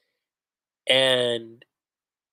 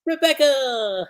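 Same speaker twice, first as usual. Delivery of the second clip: high, drawn-out call of a name; Happy calling out eagerly; excited call; 11 semitones higher, 4 dB louder, slower than usual. Retold or imitated. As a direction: call out gladly to a friend. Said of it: "That's what Happy says".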